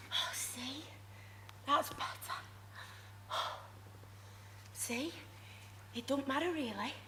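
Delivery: put-on soft whisper to a baby; soft unvoiced whisper to calm a baby; hushed soothing. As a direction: hush the baby gently.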